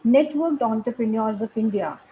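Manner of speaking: measured, read-out speaker bio; formal guest introduction. Acted. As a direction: present the guest formally to an audience.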